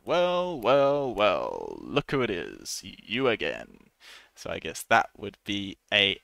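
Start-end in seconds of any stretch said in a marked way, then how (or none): 0.0-3.9 sarcastic police officer. Shown as a demonstration. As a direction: catch the repeat offender, drawn out. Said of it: "he goes".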